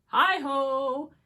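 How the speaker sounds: loud high greeting from the doorway; cheerful call. Acted. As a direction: call out hi-ho brightly. Hare calls out arriving.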